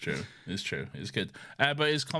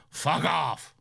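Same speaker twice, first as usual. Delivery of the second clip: gruff catchphrase in a put-on voice, pitched up; Logan; 5 semitones higher, 4 dB louder than usual. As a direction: throw out a rough, dismissive curse. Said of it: "He just goes".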